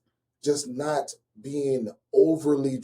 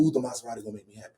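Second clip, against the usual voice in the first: mock excitement; 5 semitones lower, 4 dB quieter, much faster than usual. Mocking his old self.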